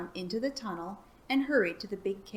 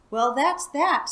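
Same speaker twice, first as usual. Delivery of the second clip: panting; 6 semitones higher, 6 dB louder, slower than usual. Acted. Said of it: "panting for breath".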